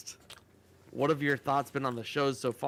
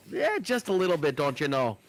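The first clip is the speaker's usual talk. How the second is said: mock Canadian; 4 dB louder than usual. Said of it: "they kinda talk similar there".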